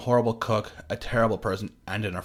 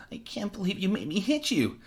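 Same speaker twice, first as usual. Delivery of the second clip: high, teary whine; a hint of a weeping man; tearful Carl; 11 semitones higher than usual. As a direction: blame her while close to tears. Carl crying after hitting.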